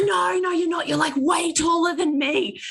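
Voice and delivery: high insistent voice; mock barista. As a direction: keep arguing like a nosy stranger. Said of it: "He goes".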